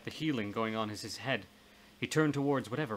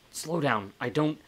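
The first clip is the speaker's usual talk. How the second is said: louder, higher, halting protest; flustered interruption; 4 semitones higher, 5 dB louder than usual. Acted. Overwhelmed man interrupts his ghostly friend, flustered interruption. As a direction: cut in to stop the flood. Interrupts her flood of plans.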